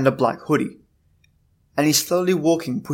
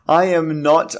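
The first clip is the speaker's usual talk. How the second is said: giggling through a tongue twister; laughing; 3 semitones higher, slower than usual. Real, not acted. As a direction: laugh while tripping over the words. Stumbling over a tongue-twister name.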